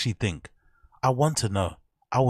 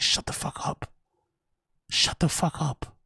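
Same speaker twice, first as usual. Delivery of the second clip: mock scolding; 5 semitones higher than usual. Mocking scolding, slowed.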